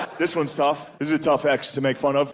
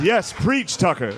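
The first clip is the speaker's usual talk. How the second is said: raised, call-and-response praise; churchgoer response; 4 semitones higher, slower than usual. Retold or imitated. Dad cheering the TV host like a churchgoer. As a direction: answer the preacher.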